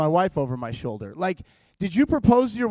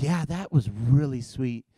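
wife sighing; 6 semitones lower, 3 dB quieter, slower than usual. Retold or imitated. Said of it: "She's like".

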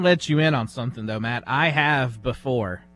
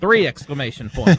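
laughing; 3 dB louder than usual. Real, not acted.

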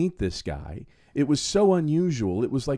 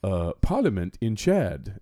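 slow imitation of a Chadian accent, low; imitated Chadian accent; 6 semitones lower, slower than usual. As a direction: imitate a Chadian man's accented English, word by word. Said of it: "He goes".

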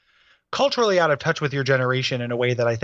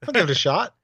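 dumb guy voice; 8 semitones higher than usual. Pretend. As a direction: play the dad as a dopey guy. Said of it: "giving your dad the dumb guy voice".

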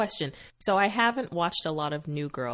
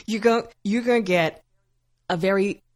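mock menace; 5 dB louder than usual. Mock threat to Nick.

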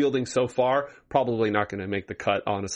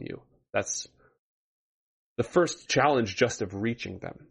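grave ancient myth telling. Acted. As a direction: tell it like an old legend. GM recounts ancient history of Cryas.

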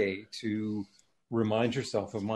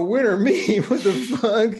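high, loud acted disbelief; hammed-up confused outburst; mock bafflement; 9 semitones higher, 7 dB louder, slower than usual. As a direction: play up being thrown by a baffling question. Acting out his own baffled reply.

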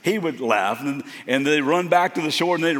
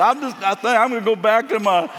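much higher and louder, rushed; flustered exit; 9 semitones higher, 8 dB louder than usual. Retold or imitated. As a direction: hurry away in nervous excitement. Backing off awkwardly.

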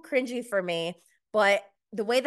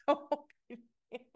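giggling echo of "So obedient", higher and soft; laughing repeat; 5 semitones higher, 5 dB quieter than usual. Real, not acted. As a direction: laugh it out, "So" stretched high. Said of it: "he's so obedient".

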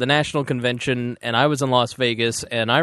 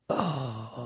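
frustrated groan; 2 semitones lower, 13 dB quieter than usual. Retold or imitated. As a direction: let out a quiet frustrated sigh. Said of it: "That was my frustrated sound".

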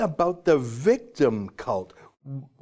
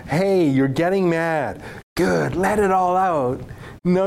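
condescending mock voice. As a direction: coo at them like a smug pundit. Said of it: "now I'm gonna talk down to you".

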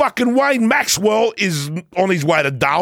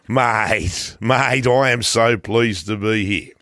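Boris voice; 5 semitones lower, slower than usual. Acted. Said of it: "Hello, Boris".

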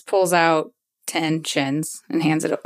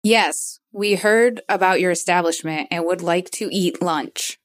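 lightly affected formal disguise voice; measured, careful put-on diction; put-on Boa voice. Disguised diner answers the bouncer at the door, lightly affected voice. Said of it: "I love that Boa's got that voice".

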